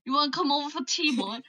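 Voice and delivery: quick, put-on Scottish accent; playful Scottish accent impression. Shown as a demonstration. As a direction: rattle off a Scottish invitation. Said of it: "like, Scottish".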